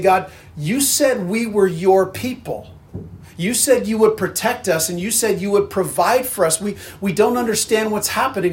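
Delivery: a touch of a hurt, pleading prayer; pleading cry to God. Acted. Suffering Israel crying out to God, mild pleading. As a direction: plead with God, lightly, as a bewildered people. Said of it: "crying out to God and saying".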